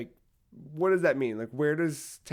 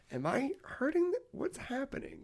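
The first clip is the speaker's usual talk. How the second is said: mock alarm; 12 semitones higher, 7 dB quieter than usual. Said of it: "And you're like".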